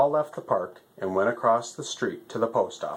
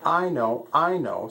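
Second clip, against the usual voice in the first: eager; 7 semitones higher than usual. Acted. Alligator eager to answer.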